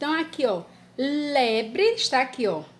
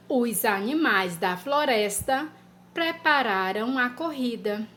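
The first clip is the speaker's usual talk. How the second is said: dictation pace. Shown as a demonstration. Teacher dictating a sentence to children. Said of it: "Três".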